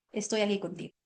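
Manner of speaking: más suave, tranquilizando al adolescente; voz baja y tranquila. Shown as a demonstration. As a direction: dilo bajito para acompañarlo. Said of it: "vas a bajar tu tono de voz". (mamá le habla suave a su hijo recostado)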